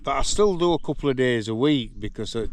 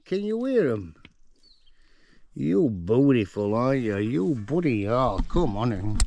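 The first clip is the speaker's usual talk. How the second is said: pet talk; 2 semitones higher, 4 dB louder than usual. Real, not acted. Cooing at pet donkey.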